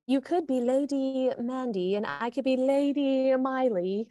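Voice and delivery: lightly put-on British lilt; a hint of mock-British grandness; pretend British accent. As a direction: play at sounding British. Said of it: "what I'm pretending to talk like".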